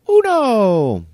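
high, blaring neighbor impression; loud Spanish counting. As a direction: call the number out piercingly, mimicking her. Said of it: "in loud Spanish".

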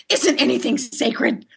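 slow, pleading mock cry; a hint of a hammed-up whimper; mock plea. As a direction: ask it like a wounded innocent. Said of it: "I go".

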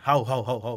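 low imitated woofs; mock dog barking. Host teasing the guest as a bulldog, mock barking. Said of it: "tú ladras".

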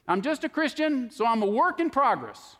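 lifted, mocking plea; mock excuse. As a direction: mildly mimic someone making excuses. Voicing an excuse-making Christian.

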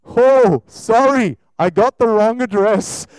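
loud sheepish excuse; sheepish depression. Pretend. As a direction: back off apologetically. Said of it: "the depression goes".

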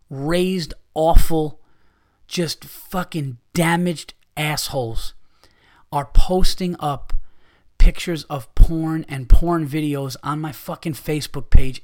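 loud, furious bursts on the insults; angry rant. Real, not acted. Comedian ranting at porn spammers, furious loud outbursts. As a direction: blast the people spamming porn on his page.

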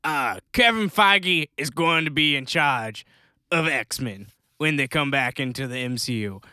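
a hint of an elderly executive; old man Disney voice. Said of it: "old man Disney voice".

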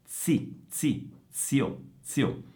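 isolated syllables ZI and ZIO with a ts sound; Z as in pizza. Shown as a demonstration. Teacher isolates the Z for students, ts-sound syllable drill. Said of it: "È la stessa Z di pizza".

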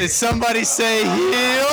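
shouted wrestling heel entrance. Acted. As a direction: bellow it like a ring entrance. Heel bursts in on cue.

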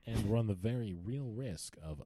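solemn news anchor read; grave breaking-news announcement; newscaster voice. Retold or imitated. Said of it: "have that newscaster voice".

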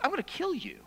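whispered menace; menacing threat. Retold or imitated. Bully threatens the boy across the schoolyard, whispered. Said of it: "he goes".

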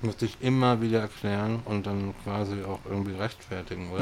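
talking with mouth full. Real, not acted. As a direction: speak through a mouthful of food. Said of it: "Jetzt rede ich schon mit vollem Mund".

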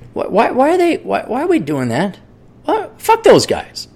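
very high mock whine; mock whining foreigner. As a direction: squeak it out in mock outrage. Imitating other countries complaining.

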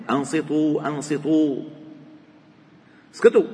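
hushing call. Acted. Dead man hushing wailing women.

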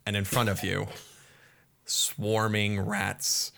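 brisk scene-setting narration; game master scene setting. Acted. Game master setting the scene for the party, brisk narration. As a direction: paint the dungeon for the players.

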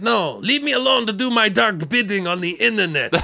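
high mock gloomy voice; hammed-up dark villain; brooding. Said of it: "he's like".

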